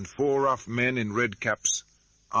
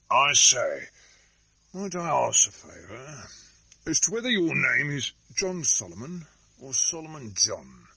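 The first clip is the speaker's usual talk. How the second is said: gruff, higher, hoarse; hoarse interruption; 5 semitones higher, 4 dB louder than usual. Acted. Cruncher questions Solomon, hoarse. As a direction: rasp it out suddenly. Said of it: "hoarsely and unexpectedly".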